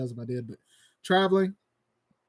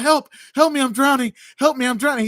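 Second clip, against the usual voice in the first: higher and louder hammed-up drowning plea; mock cry for help; 6 semitones higher, 6 dB louder than usual. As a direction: yell it like a fake drowning man. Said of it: "He's like".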